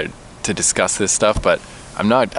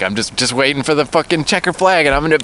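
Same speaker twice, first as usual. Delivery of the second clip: mock worked-up dread; 8 semitones higher, 4 dB louder than usual. Imagined pent-up urge, acted out.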